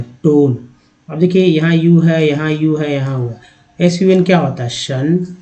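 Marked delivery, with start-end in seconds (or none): 0.0-0.6 टोन with a drawn-out "oh"; long O sound. Shown as a demonstration. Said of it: "ओ के रूप में उच्चारण". 4.7-5.4 सन with a short "uh" vowel; short A sound. Shown as a demonstration. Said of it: "आ का उच्चारण हुआ".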